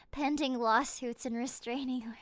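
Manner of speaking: breathy whisper through giggles. Real, not acted. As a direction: giggle it under your breath. Laughing whisper at profile.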